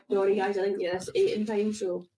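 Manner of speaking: talking with mouth full; speaking around a bite of curry. Real, not acted. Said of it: "we have to stop eating on the mic".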